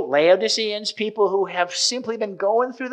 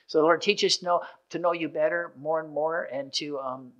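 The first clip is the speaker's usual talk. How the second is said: soft, quieter prayer voice; 4 dB quieter than usual. Acted. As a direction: pray gently for the congregation. Leads a closing prayer.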